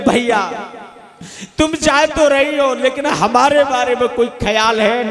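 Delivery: a hammed-up teary ask; mock crying question. Husband calling to his wife on the moving train, mock crying. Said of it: "रोते रोते पूछने लगे".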